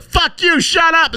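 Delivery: very high, loud yell; mock yell. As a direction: scream it at the reporters. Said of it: "And they're like".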